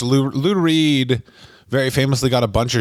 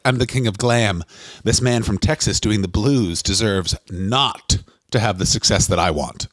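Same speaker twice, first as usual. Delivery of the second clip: low, lightly voiced vain rock star; mock rock singer; 5 semitones lower than usual. Imitating a rock singer resenting a Texas bluesman, lightly voiced low. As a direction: drop low and preen like a jealous star.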